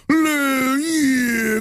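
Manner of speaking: a hint of an ultra redneck grunt; lightly voiced redneck. Shown as a demonstration. Host demonstrating an ultra redneck, lightly voiced. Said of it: "I can literally just start going".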